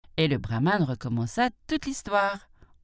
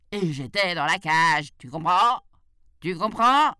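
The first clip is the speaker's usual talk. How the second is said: insistent questioning, rising louder; exasperated tiger; 3 semitones higher, 5 dB louder than usual. A narrator's reading. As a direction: press the question harder each time. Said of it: "enragé par la stupidité du chacal". (tigre exaspéré, de plus en plus insistant)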